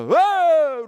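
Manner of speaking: loud, high amazed cry; shouted wow. Retold or imitated. A binman shouting in amazement. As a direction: call out in wonder. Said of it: "ropar han".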